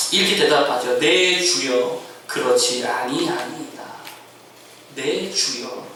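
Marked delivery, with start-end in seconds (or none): 1.0-3.8 low, slow, reverent address; Hannah, deeply respectful. Acted. Hannah answers the priest Eli with highest honorifics, reverent. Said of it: "극존칭입니다". 4.9-5.9 low, softer reverent address; Hannah, deeply respectful. Acted. Hannah addresses the priest Eli as lord, reverent. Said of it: "극존칭입니다".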